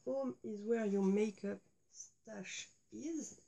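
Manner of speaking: slow English line with a strong French accent. Shown as a demonstration. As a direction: read the English motto in a proudly French accent. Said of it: "avec mon super accent".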